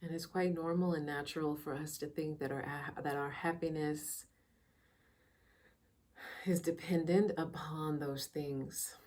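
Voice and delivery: soft, unhurried meditation guide with long pauses; calm, measured meditation voice; guided meditation. Real, not acted. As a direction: ease listeners into quiet reflection, leaving space between phrases.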